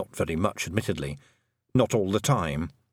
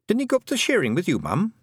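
suddenly nervous; 9 semitones higher than usual. Acted. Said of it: "suddenly nervous".

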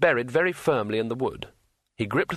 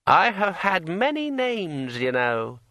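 high, slow, eerie ringing voice; like a finger round a wine glass rim; ringing metallic sword voice; 6 semitones higher, slower than usual. A narrator's reading. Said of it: "in a voice like the sound of a finger dragged".

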